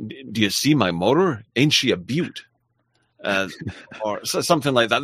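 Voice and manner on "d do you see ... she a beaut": hammed-up, unconvincing American accent; terrible American accent. Shown as a demonstration. Host attempting American for a viewer, terrible American accent. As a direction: put on a bad stagey American. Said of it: "I do a terrible American accent".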